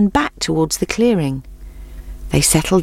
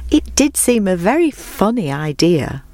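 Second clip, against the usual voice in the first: usual speaking voice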